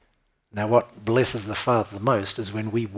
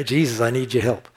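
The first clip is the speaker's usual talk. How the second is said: pleading call to Jesus, pushed a bit more; building cry; 4 dB louder than usual. Retold or imitated. Preacher building the blind man's cry again, pleading out loud. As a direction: let the plea build. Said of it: "building on it".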